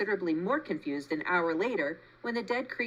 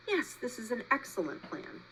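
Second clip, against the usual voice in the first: a softer, even robot voice; 5 semitones higher, 4 dB quieter than usual. A narrator's reading. Roz decides inwardly, even and robotic. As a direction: machine thinking it through.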